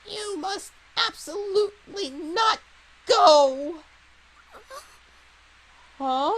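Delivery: put-on high, loud creaky old man cry; grumpy old man. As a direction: plead like a desperate old man. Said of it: "I can do an old man voice".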